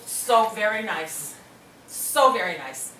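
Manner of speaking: slow, drawn-out so very nice; heartfelt. Real, not acted. Remembering the donor's parents, slow and heartfelt. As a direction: linger on it, touched. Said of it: "repeated for emphasis".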